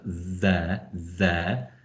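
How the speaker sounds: "there" begun with a slightly buzzing th; voiced th. Shown as a demonstration. Teacher demonstrating the sound for colleagues, buzzing th in "there". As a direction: buzz the th of "there", tongue behind the front teeth. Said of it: "a kind of slightly buzzing sound".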